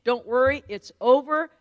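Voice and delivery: excited daughter. Retold or imitated. Daughter calling mom after the meeting, excited. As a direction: burst out with big news, acting it out. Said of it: "I was so excited".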